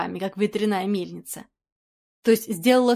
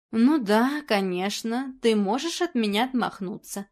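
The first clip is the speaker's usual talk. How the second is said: ordinary delivery, nothing marked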